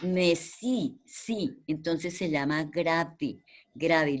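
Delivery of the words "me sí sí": "Me, sí" broken up, with "sí" held as the stressed syllable; single out "sí" and repeat it on its own; stressed syllable shown. Shown as a demonstration. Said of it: "o sea, la sílaba tónica". ("Me, sí, sí" separando y marcando la sílaba tónica "sí")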